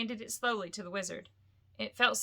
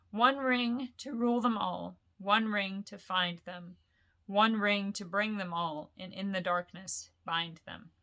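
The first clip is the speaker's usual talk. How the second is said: solemn recitation. Acted. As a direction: intone the inscription gravely. Reciting the ring verse.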